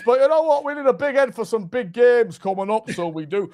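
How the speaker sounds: improvised Northern manager voice; rough manager impression; Big Sam Allardyce impression. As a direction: bluff your way through a football boss accent. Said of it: "I don't know if this is how he talks".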